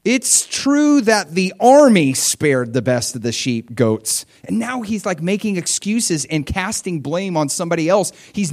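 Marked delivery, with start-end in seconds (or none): 0.0-4.2 slow, raised whiny excuse; mock excuse. Saul excusing himself to Samuel, slow and pleading. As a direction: drag out Saul's lame excuse. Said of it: "Samuel demanded".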